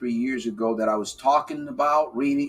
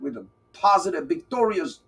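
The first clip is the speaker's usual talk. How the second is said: playful rhyme; 5 semitones higher than usual. Acted. Playful rhyming bit.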